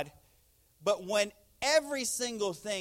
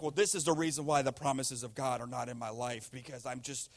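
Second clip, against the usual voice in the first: lower, mildly downcast mock self-blame; dejected self-talk; 5 semitones lower than usual. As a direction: act out someone down on themselves. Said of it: "if you have a bad moment".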